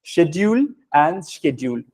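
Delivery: "Schedule" first as shedule, then as skedule; two pronunciations. Shown as a demonstration. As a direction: say "Schedule" both ways, slowly. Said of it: "दोनों ठीक है". ("Schedule" दो तरह से बोलें)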